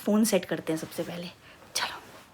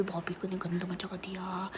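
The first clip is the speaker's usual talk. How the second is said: whisper; 6 dB quieter, slower than usual. Shown as a demonstration. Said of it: "भाभी ने गंद मचा दी".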